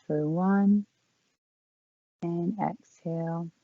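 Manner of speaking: calm, unhurried yoga-teacher voice with long pauses; guided breathing meditation. Real, not acted. Yoga teacher leading the class in four count breathing, calm guided meditation. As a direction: guide them gently through each breath, leaving space between phrases.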